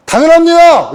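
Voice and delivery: high, loud proud answer; a hammed-up cocky angel; confident angel shout. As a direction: shout it like a zealous recruit. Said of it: "이랬거든".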